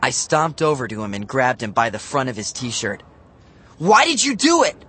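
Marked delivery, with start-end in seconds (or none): 3.8-4.8 much higher and louder, furious; growled. A narrator's reading. Matt confronting Bradley, angry growl. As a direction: demand it in a rage. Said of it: "I growled".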